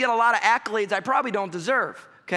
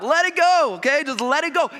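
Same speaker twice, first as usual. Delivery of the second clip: urgent plea; 6 semitones higher, 5 dB louder than usual. Real, not acted. Pastor urging congregation to let go.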